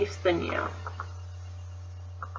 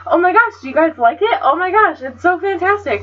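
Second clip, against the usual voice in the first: higher, bubbly mock gushing; gushing imitation; 6 semitones higher than usual. Friend Sam showing off her lanyard, mock gushing. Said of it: "and she's like".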